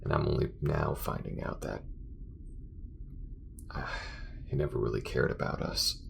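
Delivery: weary, bitter venting with long pauses; disillusioned space crewmate. Acted. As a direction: let the hurt out in halting bursts. Acted character vents about betrayal.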